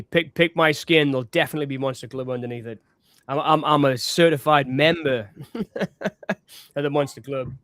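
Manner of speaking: talking while crunching crisps; crunching chips. Real, not acted. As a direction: crunch a crisp mid-sentence. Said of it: "Sorry, I'm crunching".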